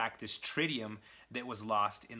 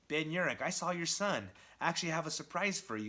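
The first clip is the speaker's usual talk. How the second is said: lightly voiced villain, higher pitch; mock taunting; 5 semitones higher than usual. Green Goblin to Ben Urich, lightly acted taunt. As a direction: tease him with a surprise, pitched up.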